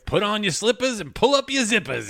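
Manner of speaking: put-on old man voice. Jingle-style show opener in character.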